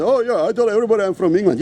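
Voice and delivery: fast, mocking quote of a boast; mocking imitation. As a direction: rattle it off as a mock boast. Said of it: "then you talk about England".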